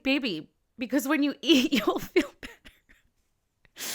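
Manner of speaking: mother calmly soothing her hangry daughter; patient mom. Retold or imitated. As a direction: coax the child gently. Mom quotes her own reply.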